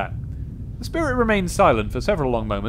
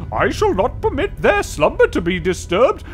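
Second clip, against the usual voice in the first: high, loud spirit fury; angry booming ghost; 6 dB louder than usual. Acted. Guardian spirit scolding the intruder, high and booming. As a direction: rail at the insolent mortal.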